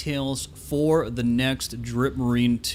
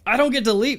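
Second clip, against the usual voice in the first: mock surprise; 11 semitones higher, 5 dB louder, faster than usual. Mock outrage at being kept.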